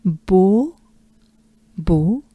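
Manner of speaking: "Beau" as a pure French o, not "bow"; a pure rounded o in "Beau". Shown as a demonstration. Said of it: "the French way".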